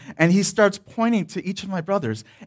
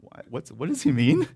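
softer, puzzled murmur; hushed onlookers; 8 dB quieter than usual. Retold or imitated. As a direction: mutter like confused strangers behind magazines.

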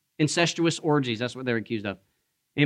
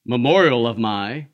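low, slow mocking quote; mock misquote; 6 semitones lower than usual. Preacher parodying a watered-down communion line, mock misquote. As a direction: drop low and drag out the wrong wording.

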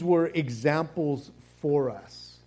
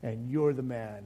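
accusing; 5 semitones lower, 5 dB quieter than usual. Retold or imitated. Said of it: "and then he goes".

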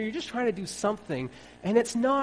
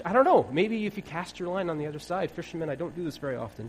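ordinary talk

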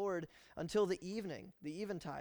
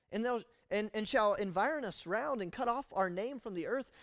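pious lament; 4 semitones higher, 4 dB louder than usual. Acted. Joshua sounding pious while complaining to God. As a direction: sound spiritual while whining. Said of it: "try to sound a little more spiritual".

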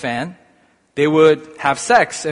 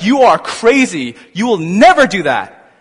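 rebuking; 5 dB louder than usual. Retold or imitated. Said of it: "He's straight up rebuking Jesus".

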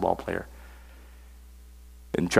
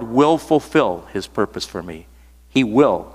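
"will" leaned on firmly; "will" stressed as a certainty. Shown as a demonstration. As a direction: punch the word "will" in the verse. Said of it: "I'm emphasizing the word will".

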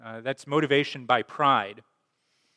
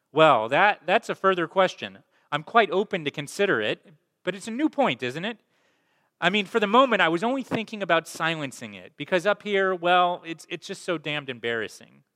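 higher, fussy, flustered voice; flustered ghost; 6 semitones higher, 4 dB louder than usual. Acted. Ghost stalls the angel about killing lizard, flustered higher voice. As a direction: wriggle out of it, politely nervous.

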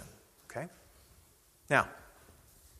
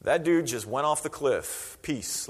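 casual dismissive crowd; much slower than usual. Retold or imitated. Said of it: "they're all like".

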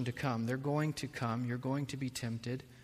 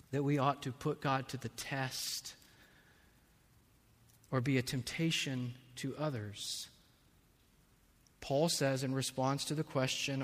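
ordinary delivery

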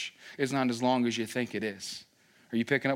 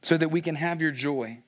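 Moses pleading. Retold or imitated. Moses asking God for mercy, earnest plea. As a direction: plead for one more day. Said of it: "He's asking".

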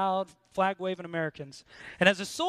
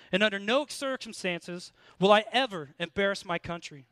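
firm, slightly raised recitation; reciting the creed; 2 semitones higher than usual. Retold or imitated. Soldier reciting the Ranger Creed for the congregation, firm recitation. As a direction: recite it like a drilled oath, fast at the start. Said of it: "and it goes like this".

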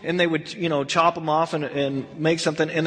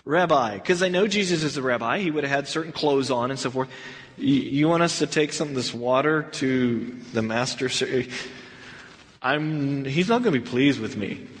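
nervous servant; 6 semitones lower than usual. Retold or imitated. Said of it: "I can imagine the servant sitting there going".

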